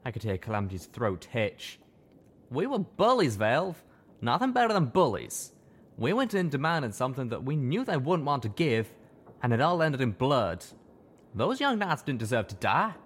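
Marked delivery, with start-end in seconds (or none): 2.5-12.9 higher, louder anguished confession; a stallion close to tears; tearful confession. A narrator's reading. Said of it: "My friend was crying now".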